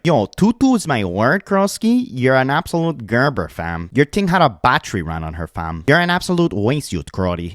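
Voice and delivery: hammed-up Toronto accent with swooping pitch; mock a Toronto local, like a mosquito trapped in a jar; exaggerated Toronto accent. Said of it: "talking in this exaggerated voice, and it literally sounds like a mosquito trapped in a jar".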